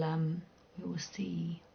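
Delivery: drawn out, slow and whispered. Real, not acted. Streamer unsure if Luke comes back, slow whisper.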